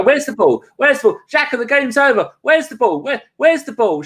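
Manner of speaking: high, lost voice asking for the ball; mock confused Xhaka. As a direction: play a bewildered defender searching.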